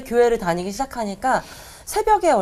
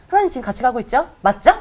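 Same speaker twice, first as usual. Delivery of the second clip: eager asking; 2 semitones higher, 4 dB louder, faster than usual. Retold or imitated. Joyful prayer on the commute.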